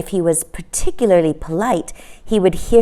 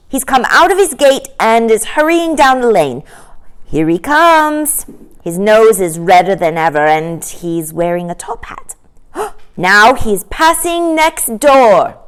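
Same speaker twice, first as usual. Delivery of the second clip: a lightly voiced eager child, a bit higher; a boy calling out what he sees, a touch higher; excited child; 4 semitones higher, 5 dB louder than usual. Boy at the window tells his sister, eager and lightly higher.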